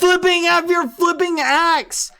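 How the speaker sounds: high, loud exasperated rant; heated, high-pitched outburst; angry yelling. Pretend. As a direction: yell back at a pestering friend. Yelling back at Quackity in game.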